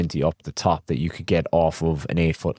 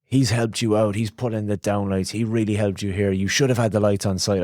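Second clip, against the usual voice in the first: mildly angry client; 3 semitones higher than usual. Retold or imitated. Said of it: "she flew off the handle".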